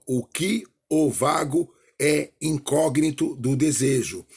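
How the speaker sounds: slow, each O of "o vago" drawn out; teacher repeating the line slowly to show the O's. Shown as a demonstration. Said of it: "Eu usei muita palavra masculina".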